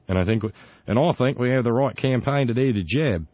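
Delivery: a faint, badly faked Australian accent; bad Aussie accent. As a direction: try an Australian accent and miss. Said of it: "not so good with the Aussie accent".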